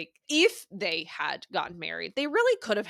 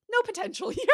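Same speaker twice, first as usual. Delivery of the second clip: mock dismissal, laughing; 13 semitones higher, faster than usual. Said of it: "he's like".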